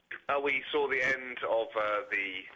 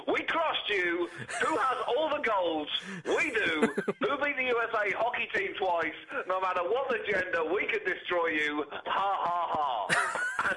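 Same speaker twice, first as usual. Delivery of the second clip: gloating taunt; 4 semitones higher, slower than usual. Acted. Reading a gloating Canadian email.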